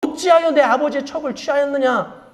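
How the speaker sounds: mildly acted challenge; confronting accusation. King confronts his general over the concubine, mild accusing tone. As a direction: demand an answer, lightly dramatized. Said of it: "이스보셋이 아브넬에게 따집니다".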